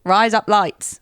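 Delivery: "Rise up lights" lightly Australian; attempted Australian accent. Shown as a demonstration. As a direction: have a go at Aussie vowels. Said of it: "trying to do it a bit Australian".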